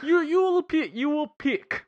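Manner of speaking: high, loud mock Russian villain voice, laughing; a Russian bad guy giving Harrison Ford a choice, in a hammed-up accent. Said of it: "that was my Russian accent".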